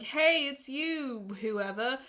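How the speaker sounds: drawn-out, over-chummy hello; mock gushing greeting, stretched out; overfamiliar greeting. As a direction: greet a stranger like an old pal. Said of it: "be like".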